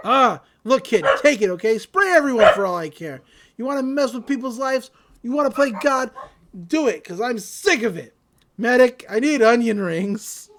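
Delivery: loud, fed-up outburst, played up; acted exasperation. Love God hands it over to the kid, acted exasperation. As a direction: give up in mock exasperation.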